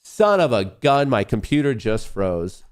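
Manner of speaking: loud, high exasperated cry; frustrated outburst. Real, not acted. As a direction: blurt out the frustration. Computer freezes mid-stream.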